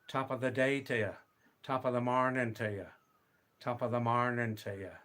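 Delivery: a light, quick Irish lilt on a stock greeting; Irish accent. Acted. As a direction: toss it off as a playful stage Irishman, Irish accent. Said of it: "Do I sound a little bit Irish there?".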